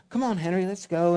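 impatient wife. Retold or imitated. Wife calling her husband away.

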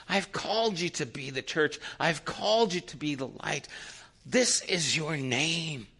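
lightly voiced divine appeal; God's earnest appeal. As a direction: plead earnestly with a beloved people. Voices God pleading with the church.

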